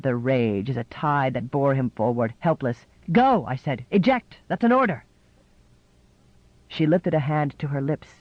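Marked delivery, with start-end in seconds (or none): 3.1-3.5 higher, louder barked command; angry order. A narrator's reading. Nichol in a rage ordering Jessie off, shouting. Enraged man orders her away. 3.9-5.0 higher, louder barked command; angry order. A narrator's reading. Nichol in a rage ordering Jessie off, shouting. Enraged man gives an order.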